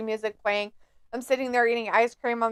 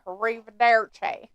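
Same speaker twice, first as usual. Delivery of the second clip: Southern drawl. Retold or imitated. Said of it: "slow ass fucking drawl".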